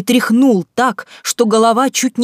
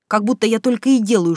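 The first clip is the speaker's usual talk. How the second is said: usual speaking voice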